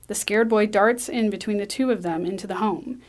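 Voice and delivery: usual speaking voice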